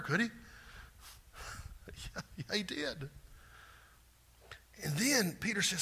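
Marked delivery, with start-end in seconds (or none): none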